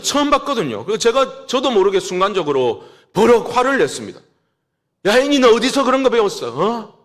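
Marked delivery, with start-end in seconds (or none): 5.0-7.0 fast mock yell, pitched up; retold yell. Father retelling how he yelled at his little daughter, a fast mock yell. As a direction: snap at a kneeling child in a retold burst. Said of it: "제가 소리를 확 질렀어요".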